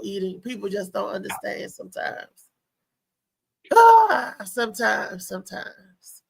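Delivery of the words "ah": loud, high "aah"; exasperated "ah". Real, not acted. Comedian venting about difficult eating, a loud exasperated "ah". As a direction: let out a sudden high, loud cry.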